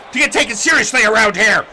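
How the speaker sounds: fast, angry tail of a rant. Acted. Beaten wrestler demanding respect around here, fast and angry. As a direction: rattle it out in exasperation. Rant continues, faster and loud.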